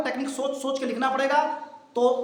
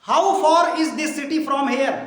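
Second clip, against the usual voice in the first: emphatic example; much slower than usual. Shown as a demonstration. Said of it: "teacher gives example sentence".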